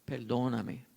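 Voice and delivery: a touch of a broken son asking pardon; tearful apology. Retold or imitated. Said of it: "le dijo".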